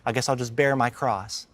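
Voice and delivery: mock put-upon whine about coffee; lightly mocking a complainer; whiny complaint. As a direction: play a petty churchgoer sighing over a small chore. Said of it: "you hear some people say".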